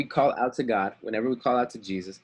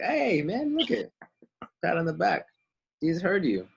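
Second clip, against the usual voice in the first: excited cheer; 7 semitones higher than usual. Acted. Crowd cheering up blind man.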